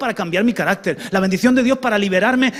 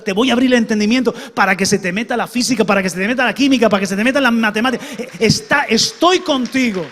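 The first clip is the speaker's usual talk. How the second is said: building divine promise; 4 dB louder, faster than usual. Acted. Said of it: "le digo yo".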